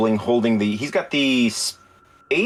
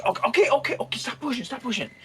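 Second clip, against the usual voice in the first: put-on old codger voice; 11 semitones higher, 3 dB quieter, faster than usual.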